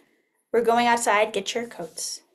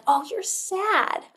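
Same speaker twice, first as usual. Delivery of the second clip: put-on comforting a child. Shown as a demonstration. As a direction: soothe a scared little one.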